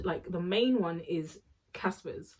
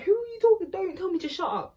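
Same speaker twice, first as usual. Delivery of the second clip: much higher, louder indignant yell; furious outburst; 12 semitones higher, 4 dB louder, faster than usual. Retold or imitated. Chloe rounding on Winnie after being told to shut up, a shrieked challenge.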